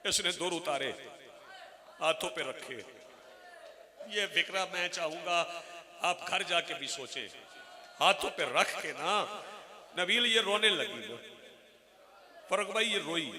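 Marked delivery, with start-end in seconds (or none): 4.1-9.1 spoken much softer, drawing listeners in; softly. Real, not acted. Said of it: "आराम से कहना चाहता हूँ". (धीमी, नरम आवाज़ में)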